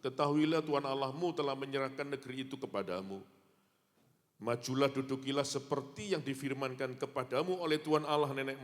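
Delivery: preacher reads Deuteronomy to the church; scripture reading. Acted. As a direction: declare the verse.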